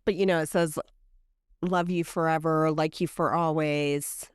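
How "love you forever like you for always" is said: tender recital. Retold or imitated. Reciting lullaby from book.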